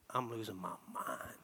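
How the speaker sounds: whispered plea; desperate hush. Retold or imitated. Father pleading to his wife for help, whispered.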